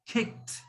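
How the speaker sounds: "kicked" whispered as a short kikt; whispered demo. Shown as a demonstration. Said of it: "So it should sound".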